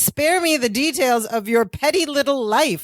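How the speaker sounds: a touch of snooty disdain; mildly rude retelling. Retold or imitated. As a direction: retell a rude brush-off, lightly acted. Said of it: "she very rudely says".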